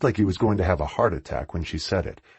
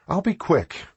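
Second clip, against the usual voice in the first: promising; 10 semitones higher than usual. A narrator's reading. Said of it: "Winnie promised".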